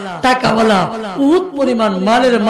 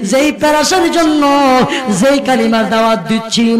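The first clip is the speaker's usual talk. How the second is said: melodic sermon chant swelling into high cries; impassioned waz preaching; 3 semitones higher, 7 dB louder than usual. Acted. Nephew refusing his uncle's offers, in impassioned preaching chant. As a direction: preach it as a pleading chant with stretched endings.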